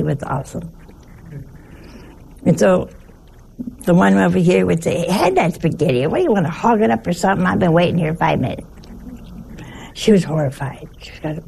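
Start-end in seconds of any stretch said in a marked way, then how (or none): 5.0-8.7 quick, mildly impatient dinner-table grumble; impatient Italian relative. Retold or imitated. Italian relative complaining across the dinner table, mildly impatient. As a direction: rattle off a mock complaint. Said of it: "they holler".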